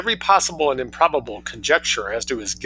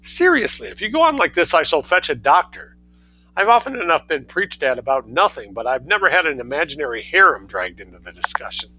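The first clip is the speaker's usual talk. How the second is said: mocking son; 5 semitones higher than usual.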